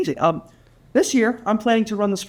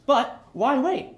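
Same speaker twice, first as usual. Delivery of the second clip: slow; 5 semitones higher, much slower than usual. Acted. Teasing cookie hunt.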